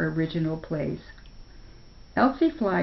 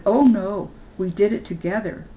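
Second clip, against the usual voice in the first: modest; 3 semitones higher, 4 dB louder than usual. Acted. Spark modestly declines thanks.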